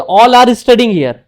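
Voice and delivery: All are studying here spelled out very slowly, word by word; teacher dictating the right sentence slowly; slow model sentence. Shown as a demonstration. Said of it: "जैसे बोलेंगे".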